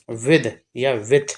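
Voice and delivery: with said slowly both ways, first with d then with t; teacher contrasting two ways to say with, slowly; slow demo of both. Shown as a demonstration. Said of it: "with को with भी पढ़ देते हैं".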